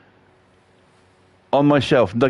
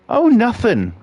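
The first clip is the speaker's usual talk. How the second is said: sulky wife; 10 semitones higher than usual. Retold or imitated. Wife voiced sulking in quarrel.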